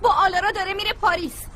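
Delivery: a hint of crying under the words; hurt and near tears; tearful. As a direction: friend tearfully explaining the trip, teary. Hurt friend reveals Paris trip.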